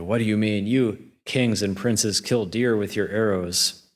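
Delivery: a touch of outrage, throwing the accusation back; mildly outraged ogre. Retold or imitated. Ogre accuses the prince of killing deer, in mildly acted outrage. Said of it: "this outrages the ogre".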